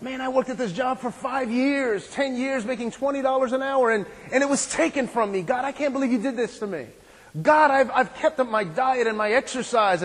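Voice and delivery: a preacher mimicking a grumbling believer, mildly whining; complaining to God. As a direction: whine at God about the unfairness. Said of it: "when you complain and you murmur".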